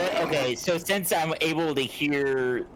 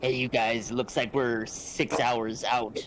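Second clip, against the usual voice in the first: lower, slower in-character voice; deep character voice; 3 semitones lower, 3 dB quieter than usual. Acted. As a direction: drop the voice low as a pirate. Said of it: "Sick voice, bro".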